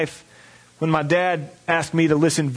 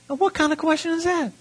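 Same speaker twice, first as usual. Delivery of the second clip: incredulous; 12 semitones higher than usual. Retold or imitated. Reacting to mom's offer.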